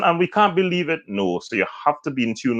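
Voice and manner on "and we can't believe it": high-pitched, inappropriately perky reporter; mismatched high, upbeat news read; wrong emotion for the news. Shown as a demonstration. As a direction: deliver tragedy as if it were light news. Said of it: "someone who can't capture that emotion".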